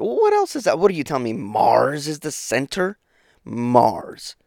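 sarcastic disbelief, slow questioning; mock incredulous. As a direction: argue back at an imagined heckler. Mock argument with imagined objector.

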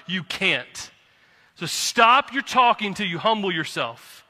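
heated, emphatic rebuke; getting mad. Real, not acted. Preacher telling prideful believers to stop ruining Christ's name, getting mad. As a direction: scold them with real anger, punching key words. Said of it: "sorry, I'm getting mad".

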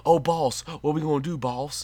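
mocking a stereotyped movie sidekick, lightly voiced; stereotypical sidekick voice. Mocking a film character's stereotyped lines, lightly voiced sidekick. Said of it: "could not be more stereotypical".

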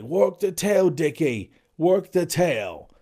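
high, loud calls to the diver; hammed-up shouting from the deck; mock crew shout. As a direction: yell it up at him like a boat crew.

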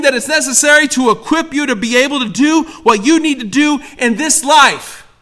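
loud, high, driving sermon voice; full-force preaching. Acted. Preacher urging listeners to flee sin, loud preaching. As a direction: preach it out to the crowd.

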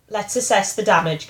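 shouting voice. Retold or imitated. Ordering oneself after a crash, mock shouting. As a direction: imitate a shout without full force. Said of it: "like, the shouting voice going".

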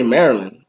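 "Maryland" said in full as MER-uh-lund, with the D sounded; careful Maryland. Shown as a demonstration. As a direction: say "Maryland" the correct way, ending on a clear D. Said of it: "They say the correct way".

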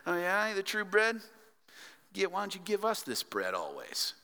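mocking sarcastic tone; mock the offer with sarcasm; lightly voiced sarcastic crowd. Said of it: "the crowd responds sarcastically".

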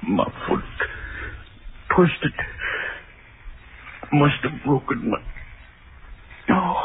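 gasping, crying with pain; pained and terrified. Acted. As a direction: crawl on, moaning in pain. Injured, crawling in fear.

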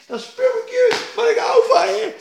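high, loud pleading voice; high loving plea; voicing God.

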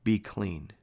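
understated compassion in a read quote; moved with pity. A narrator's reading. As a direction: gently grant the request, pausing midway. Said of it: "Moved with pity".

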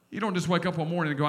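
exhausted person giving up, quiet and low; weary mock collapse. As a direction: sink into exhaustion as you go. Acts out being worn out.

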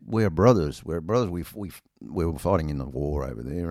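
imitating an American. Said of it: "He said".

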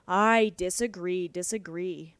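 slow teasing echo of "disagree"; mock echo. Mister O'Brien teasingly echoing the maid's objection, slow mock echo. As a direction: drawl "I disagree, disagree" back at her, teasing. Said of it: "You're quite wonderful at that".

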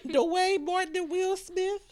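slow, high, squeaky with laughter; cracking up. Real, not acted. Joking about couples costumes, helpless laughter. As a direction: struggle to get it out through real laughter.

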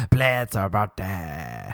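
last word stretched out in mock pleading; whining demand. Friends nagging the DJ for birthday girl, whining. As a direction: plead and drag out the final word. Group demanding song, growing drawn out.

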